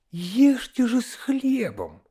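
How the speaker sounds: high, drawn-out governess reprimand; nagging governess. A narrator's reading. Governess correcting children at dinner, high nagging voice. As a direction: slowly scold in a high put-on voice.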